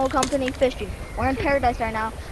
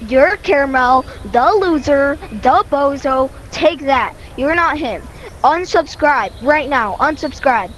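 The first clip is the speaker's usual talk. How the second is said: loud roast; 6 dB louder, slower than usual. Pretend. Roasting friend loudly.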